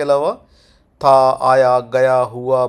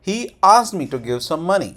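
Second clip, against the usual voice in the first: slow model sentence, "asked" raised, falling on "money"; sentence tone demo; 3 semitones higher, 4 dB louder, much slower than usual. Shown as a demonstration. Teacher modelling the English tone, slow demo sentence. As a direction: lift "asked", glide down to "money". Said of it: "tone इसकी ऐसे ही रहती है".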